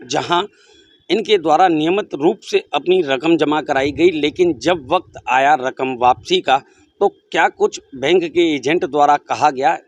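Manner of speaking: measured, projected reporter's delivery; news report intro. Real, not acted. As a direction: present the case to viewers, emphatically. (समाचार reporter की बुलंद प्रस्तुति)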